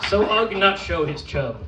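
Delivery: lightly voiced simple caveman; caveman persona. Poet performing as Ugg for the audience, caveman persona. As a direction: recite it as an earnest caveman, lightly played. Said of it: "from the perspective of an actual caveman".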